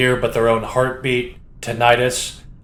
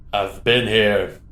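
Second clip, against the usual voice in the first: slow, bored and unbothered; slower than usual. Acted. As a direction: drag it out like you couldn't care less. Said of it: "a bored voice lulls".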